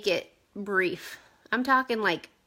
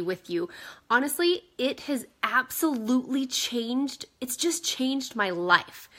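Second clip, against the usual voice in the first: salesy pitch voice. Shown as a demonstration. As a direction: put on the fake excited seller tone. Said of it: "listen to the difference in the tone of my voice".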